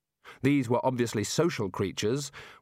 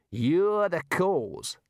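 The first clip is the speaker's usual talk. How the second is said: higher, drawn-out accusation; accusing; 7 semitones higher, much slower than usual. Acted. Kangaroo blaming a reluctant hero, accusing. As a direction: lay the blame in a slow character voice. Kangaroo blames Rincewind in argument.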